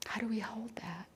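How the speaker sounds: a near-silent, searching whisper. Shown as a demonstration. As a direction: whisper "How do we hold that?" to yourself. Question repeated as whisper.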